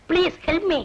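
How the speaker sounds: drawn-out, slow plea for help; slow pleading begging. Acted. Husband begging his wife for help, slow and pleading. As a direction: stretch every word, begging.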